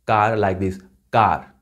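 "car" with an Indian accent. Shown as a demonstration. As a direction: say "car" as in Indian English, tapped r. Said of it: "we pronounce in India".

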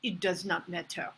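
quiet, dignified retreat; with dignity. Acted. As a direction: give up with your dignity intact. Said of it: "you say with dignity".

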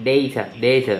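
"data" twice, each with an "ay" first vowel; common DAY-ta pronunciation. Shown as a demonstration. Streamer demonstrates for viewers, "data" said DAY-ta. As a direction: repeat "data" slowly as DAY-ta. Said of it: "ประมาณเนี้ย".

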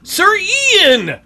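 high, loud call across the room. Real, not acted. Player calling his sim by name, loud call. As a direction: yell the name to get his attention.

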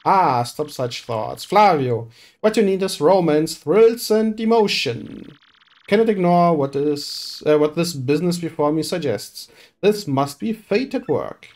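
a showy, theatrical rich merchant; pompous merchant voice. Acted. Boastful merchant recruiting the hero for a voyage, theatrical. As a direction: play it grand and self-important. Reads Flavio's lines in character.

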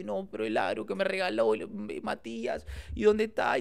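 lightly acted motherly worry; retold worried mother. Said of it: "mi vieja toda preocupada".

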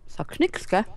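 smacking lips while chewing; loud chewing. Real, not acted. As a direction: talk while chewing noisily. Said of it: "Hör auf zu schmatzen da".

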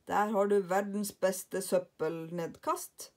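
slow, proud showman's boast; boastful Karlsson. Acted. Karlsson shows off his best rubbish chute, slow and proud. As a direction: present it like a marvel.

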